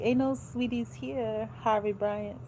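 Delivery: sassy rebuff. Real, not acted. Rebuffing the author's greeting.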